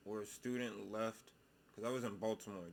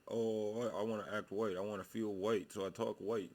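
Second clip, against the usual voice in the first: mock quote; 6 dB louder than usual. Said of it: "It's, it's not".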